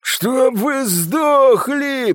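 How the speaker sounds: high, slow, strained curse; rasped curse. A narrator's reading. Славик with cut throat to his killers, rasping. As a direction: drag the curse out with failing strength. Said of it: "прохрипел он".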